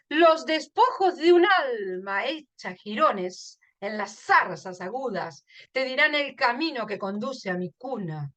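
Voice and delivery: expressive verse reading with an emphatic opening; poem recitation. Acted. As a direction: lean on the key words, let line endings fall.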